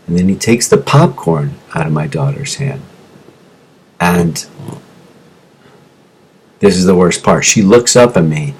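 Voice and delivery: low, soft, pained retelling; a little emotional. Real, not acted. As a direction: drop pitch and volume, holding back emotion. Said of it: "I'm getting a little emotional about this".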